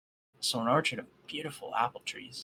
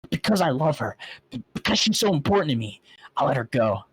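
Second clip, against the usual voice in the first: pained plea; 3 semitones higher, 4 dB louder than usual. Acted. Narrator pleads with Celestia.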